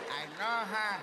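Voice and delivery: catchphrase impression. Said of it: "how to talk like me".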